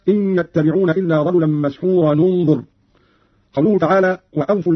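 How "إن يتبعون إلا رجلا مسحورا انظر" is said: "مسحورا، انظر" linked as "mas-hura-nu-ndhur"; damma on joining. Shown as a demonstration. Teacher gives a further Qalun example, damma linking "مسحورا، انظر". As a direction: join "مسحورا" to "انظر" with a nu sound. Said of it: "وكذا قوله تعالى".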